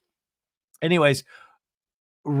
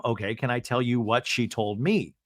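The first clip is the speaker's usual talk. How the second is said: slightly lowered, composed retelling; calm, imitated; 2 semitones lower, 4 dB quieter than usual. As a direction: ask evenly, keeping it mild and measured. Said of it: "Katie's very calm".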